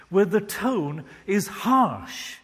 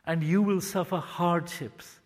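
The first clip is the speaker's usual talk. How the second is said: gentle gracious. Shown as a demonstration. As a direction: warn them gently, like a patient father. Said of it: "God gently and graciously speaks".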